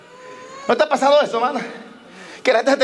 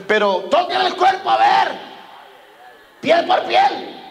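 challenging devil; 2 semitones higher, much slower than usual. Acted. Devil challenges God about Job.

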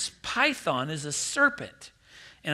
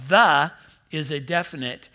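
normal talking voice

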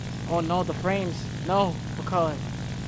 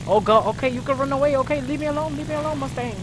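mock pleading; 6 semitones higher, faster than usual. Pleading with attacking enemy in game.

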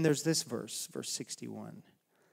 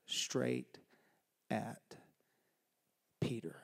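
whispered, low name; 5 semitones lower, 10 dB quieter, slower than usual. Real, not acted. Preacher naming Peter at the climax, whispered. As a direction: breathe the name out.

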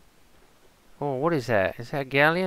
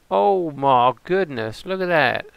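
startled amazement; 3 semitones higher, 7 dB louder, slower than usual. Real, not acted. Player suddenly spots something startling.

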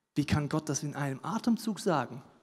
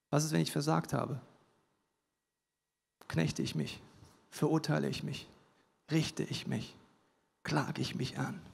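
hushed questions; 7 dB quieter than usual. Acted. Preacher asks searching self-questions.

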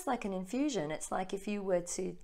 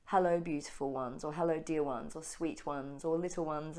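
slow considered channeled voice. Retold or imitated. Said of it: "my voice slowed right down and was much more considered".

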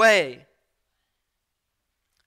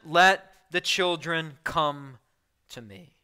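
slow, gentle invitation fading out; welcoming command; 3 semitones lower, slower than usual. Retold or imitated. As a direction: invite the children in slowly and kindly. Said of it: "this welcoming command".

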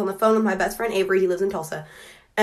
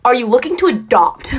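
slow hushed whisper; 3 semitones higher, 7 dB louder than usual. Retold or imitated. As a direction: lean in and whisper it like a secret offer. Joke question whispered to cashier.

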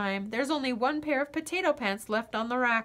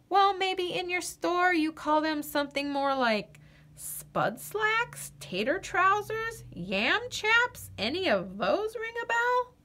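eager pleading; 6 semitones higher than usual. Acted.

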